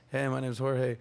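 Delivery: low plain-voiced Jorge; regular voice. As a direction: speak it in his normal voice. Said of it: "What's your regular voice?".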